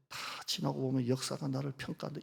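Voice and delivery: 작은 속삭임으로 되뇌기; 비밀처럼 낮게 속삭여. Retold or imitated. Whispered self-talk. (스스로에게 속삭이는 다짐)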